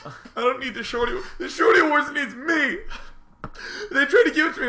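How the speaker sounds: high, loud hammed-up bravado; mock arrogant boast. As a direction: boast like a diva.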